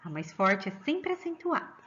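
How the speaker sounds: ordinary talk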